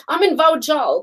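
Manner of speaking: "Vauxhall" said as vow-JAWL; literal Albanian reading. Retold or imitated. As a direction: read "Vauxhall" by its letters, vow-jall. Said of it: "letter by letter".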